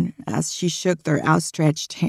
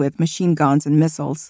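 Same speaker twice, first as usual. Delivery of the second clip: ordinary delivery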